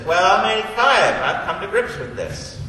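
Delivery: imitating Pop laughing through his words; a light laugh in a retold old man's reply; chuckling grandfather. Grandson retelling Pop's hospital call, chuckling. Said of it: "he has the gall to say this".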